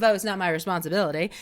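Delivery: fast, mocking his defensive line. Mimicking the runner's defensive excuse, fast and mocking. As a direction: toss it off like a defensive brush-off. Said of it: "his whole defensive thing of".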